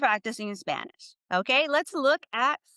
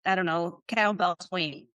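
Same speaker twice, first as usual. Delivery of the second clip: mock personal trainer. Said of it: "your personal trainer tells you".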